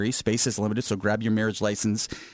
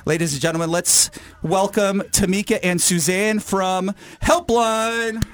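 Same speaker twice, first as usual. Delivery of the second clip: emcee intro; 7 semitones higher, 3 dB louder than usual. Acted.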